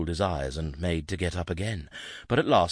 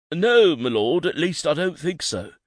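anxious servant; 10 semitones higher, 7 dB louder than usual. A narrator's reading. Servant voice, high.

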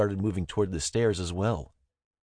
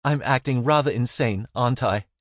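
lightly higher, a hint of sheepish woman; Zara, sheepish; 5 semitones higher, 5 dB louder than usual. A narrator's reading. Zara admitting she acts insane, sheepish grin.

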